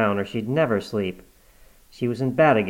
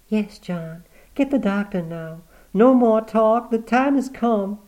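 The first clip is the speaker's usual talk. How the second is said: higher, rising to loud resolve; urgent old woman; 11 semitones higher, 4 dB louder than usual. Acted. Granny telling John the time has come, urgent. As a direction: call for the doctor with urgent finality.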